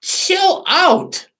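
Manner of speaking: high, soothing mock reassurance; calming voice. Jesus telling the frantic disciples to sit, calm and high. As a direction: gently settle a panicked friend.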